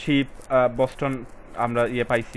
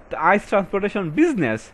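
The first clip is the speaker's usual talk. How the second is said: corrected reading; 9 semitones higher, 5 dB louder, much slower than usual. Shown as a demonstration.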